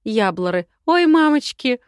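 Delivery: high, loud laughing through words; hysterical laughter. Acted. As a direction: laugh hysterically, tears coming. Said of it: "истеричный хохот".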